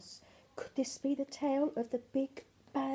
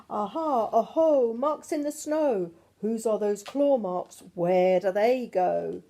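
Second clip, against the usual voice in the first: excited discovery; 6 dB louder than usual. Acted. Child finds claw marks.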